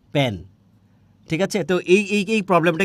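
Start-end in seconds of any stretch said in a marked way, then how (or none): 0.1-0.4 প্যান with a hard p, falling; regional p for f. Retold or imitated. Teacher answering own question, প্যান with p for f. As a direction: say প্যান with p replacing f. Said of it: "ফ্যানেরে কি বলে?".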